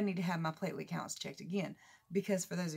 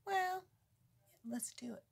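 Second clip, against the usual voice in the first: put-on high, softer replay of the boy; son's reply imitated; 12 semitones higher, 5 dB quieter than usual. Mother replaying the way he did it, hushed imitation. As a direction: imitate him softly, ending in a near whisper. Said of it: "Just the way he did it".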